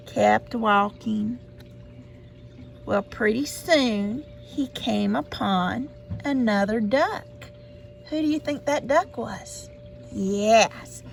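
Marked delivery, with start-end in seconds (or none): none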